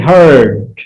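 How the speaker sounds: হার্ড said on its own with a clear closing "d"; final d sound. Shown as a demonstration. Teacher rhyming heard with bird for students, clear final d. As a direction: sound out হার্ড to show its "d" ending. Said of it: "ডি উচ্চারণ হচ্ছে".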